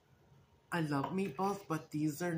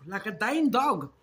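louder, slower hammed-up rasp; hoarse, exaggerated rasp; 6 semitones higher, 9 dB louder than usual. Real, not acted. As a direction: play up the hoarse voice. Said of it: "I sound like a dog".

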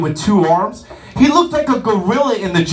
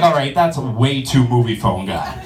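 deep, lower trailer-announcer voice; movie phone guy; 9 semitones lower than usual. Retold or imitated. Comic imitating the movie phone announcer, lower and deeper. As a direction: boom it out like the movie phone man. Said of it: "I'm like".

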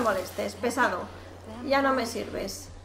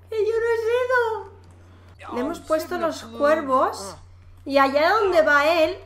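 laughing; 4 semitones higher, slower than usual. Real, not acted. Crying laughing over curse.

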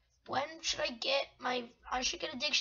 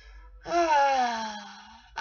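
sigh; 2 semitones lower, 4 dB louder than usual. Real, not acted. Sighs after the bragging.

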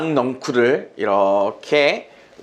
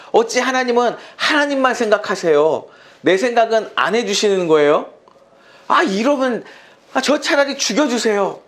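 high, exasperated whining at God; mock-complain like a sulking believer; whiny complaint; 6 semitones higher than usual. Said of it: "라고 얘기할 수 있을지도 몰라요". (하나님께 징징대며 불평하는 흉내)

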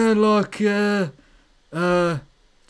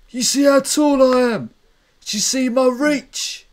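Schwartz; 2 semitones higher than usual. Pretend. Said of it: "Can I ask a question for Schwartz?".

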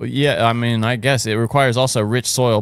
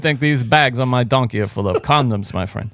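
put-on Colombian accent. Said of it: "Colombian accent".

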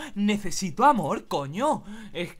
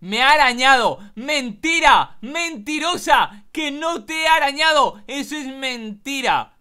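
higher, drawn-out outraged protest; indignant denial; 5 semitones higher, 4 dB louder than usual. Pretend. Accused cat calls the girl a liar, indignantly. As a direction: cry foul at a false accusation. Denies girl's scratching accusation.

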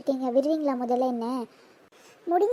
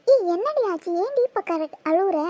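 higher-pitched, startled questioning; alarmed concern; 5 semitones higher than usual. Acted. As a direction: ask in alarm why your friend is crying. Friend finds her suddenly crying.

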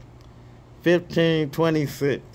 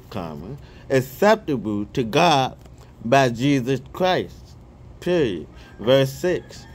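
scripture reading. Real, not acted. Reading First Peter aloud to his viewers, measured scripture reading.

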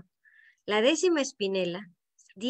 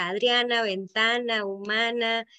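"Adriana, ventana, humana" listed with each accented A held; stressed rhyme endings. Shown as a demonstration. Teacher lists rhymes for students, stressing the "-ana" in "Adriana, ventana, humana". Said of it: "A partir de donde se acentúa algo".

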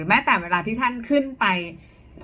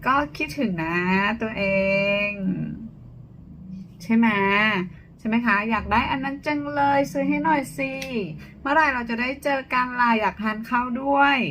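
sweet, coaxing voice lifted higher; cute higher tone. Shown as a demonstration. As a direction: coo to a boyfriend, pitched up and cute. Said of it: "เสียงมันก็จะประมาณอย่างนี้ใช่ไหมคะ". (เสียงออดอ้อนน่ารัก โทนสูงขึ้น)

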